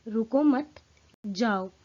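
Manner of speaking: "रुको मत" together, then a break before "जाओ"; group "रुको मत" so it means go away; pause after don't stop. Shown as a demonstration. Teacher showing the go meaning, pause after "मत". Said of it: "यानी कि जाने के अर्थ में".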